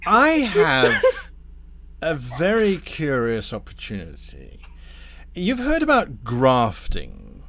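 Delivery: deliberate, insinuating tempter; lightly voiced scheming Damnifer. Damnifer pitches a grafting scheme to Thorn, lightly voiced courteous schemer. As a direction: unveil the offer with relish. Game master plays Damnifer.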